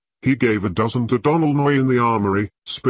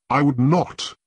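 higher, insistent denial; insisting; 6 semitones higher than usual. A narrator's reading. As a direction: push back hard on not. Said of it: "Gren insisted".

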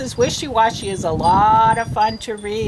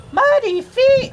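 much higher, louder yell; 13 semitones higher, 5 dB louder than usual. Shown as a demonstration. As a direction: yell it out in dismay. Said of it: "she's just kinda yelling it".

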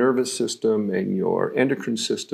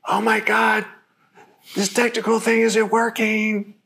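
much higher, amused and light; with a smile, laughing; 12 semitones higher than usual. Shown as a demonstration. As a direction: laugh it off as no big deal. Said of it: "I'm saying it with a smile 'cause I'm laughing".

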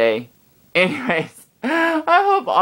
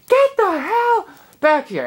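yelling at the dog. Retold or imitated. Scolding the runaway dog, high angry yell. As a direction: order the dog back in a shout. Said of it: "and I'm screaming".

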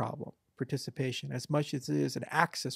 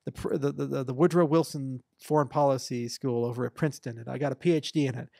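pompous know-it-all voter; 6 dB louder than usual. Retold or imitated. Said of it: "somebody's like".

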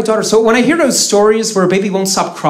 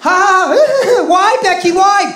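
high, laughing mock wail; hammed-up anguish; 11 semitones higher, 3 dB louder, much slower than usual. Comic parodying a soap drama, high hammed-up wail. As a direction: overact a tragic cry for laughs. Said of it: "that took years of acting training".

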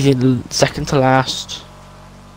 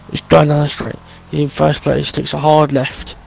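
playful sports commentator voice; mock race commentary. Friend mockingly commentates his driving, playful announcer.

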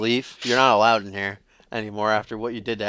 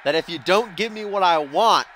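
mock Russian accent; 3 semitones higher than usual. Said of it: "should I do that Russian accent?".

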